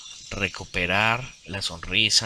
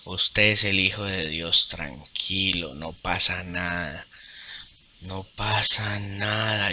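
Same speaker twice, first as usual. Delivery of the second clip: calm reassuring voice. Retold or imitated. The inner voice calms him, slow and soothing. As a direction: speak slowly and gently, like a comforting god. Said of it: "diciéndome, dándome tranquilidad".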